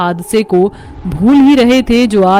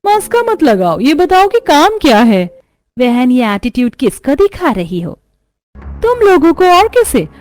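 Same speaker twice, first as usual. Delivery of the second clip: a lightly voiced arrogant lady, pitched up at the start; haughty rich woman. Anjali mocks the village women who came to her, haughty. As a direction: sneer down at the poor women.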